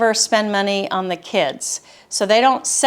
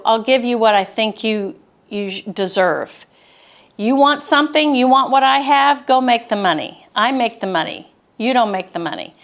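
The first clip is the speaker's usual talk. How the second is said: harsh tone. Retold or imitated. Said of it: "Just that kind of harsh tone".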